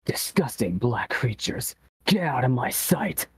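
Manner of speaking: slow menacing hedgehog voice; lightly voiced Shadow the Hedgehog. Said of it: "Can we get that one".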